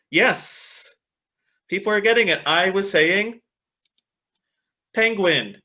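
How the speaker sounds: upbeat teacher cheer; excited praise. Real, not acted. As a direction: celebrate the right answers. Students guessed the word.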